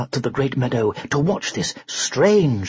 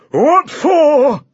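dazed growl; 12 semitones higher, 7 dB louder than usual. Acted. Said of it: "growled Sir Basil dazedly".

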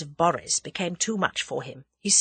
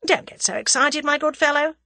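higher-pitched, unruffled condescension; calm; 10 semitones higher, 4 dB louder than usual. A narrator's reading. Captive soothes the raging foreigner, calm. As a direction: humour the hothead coolly. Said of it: "said Tommy calmly".

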